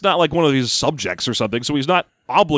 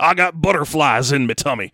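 folksy cowboy, a bit off his own voice. Acted. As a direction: talk like a nervous old cowboy. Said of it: "some sort of old cowboy voice".

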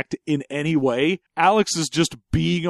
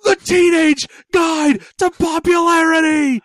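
announcer voice; 13 semitones higher, 6 dB louder than usual. Pretend. Booming mock title announcement.

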